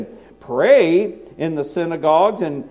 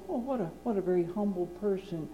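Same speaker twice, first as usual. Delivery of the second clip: mock admiring; 11 dB quieter, faster than usual. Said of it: "and you think".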